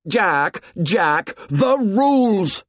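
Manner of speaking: high, mocking sing-out, drawn out at the end; bitter mimicry. A narrator's reading. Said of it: "Jack's voice sounded in bitter mimicry".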